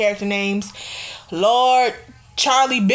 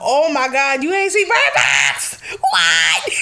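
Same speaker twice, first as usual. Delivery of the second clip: shocked disbelief; 2 semitones higher, slower than usual. Real, not acted. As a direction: react as if scandalized. Shocked at co-host not having seen it.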